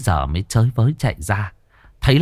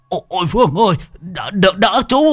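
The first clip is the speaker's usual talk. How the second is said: panicked cry for help; 7 semitones higher than usual. Acted. Old man falling, calls for help.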